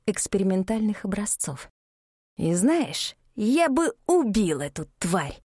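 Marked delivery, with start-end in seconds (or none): 2.4-5.4 hissing. Acted. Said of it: "прошипел некромант".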